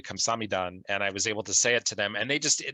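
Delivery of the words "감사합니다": careful learner's "감사합니다", syllable by syllable; Korean thank you. Shown as a demonstration. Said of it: "they taught me how to say thank you".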